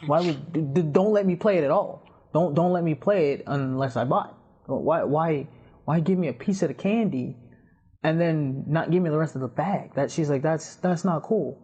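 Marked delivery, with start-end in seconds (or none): 0.1-9.9 imitated friend's exasperated protest; put-out, pleading retelling; indignant complaint. Retells friend's complaint about paywall. 10.4-11.6 slow, higher-pitched disapproval; lightly voiced friend, drawing it out; imitated friend. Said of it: "That's how she talks".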